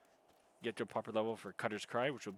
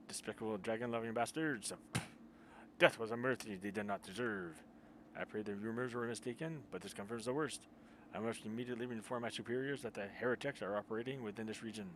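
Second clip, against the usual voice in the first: attempted French accent; 2 semitones higher than usual. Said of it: "I gotta get that accent a little bit better".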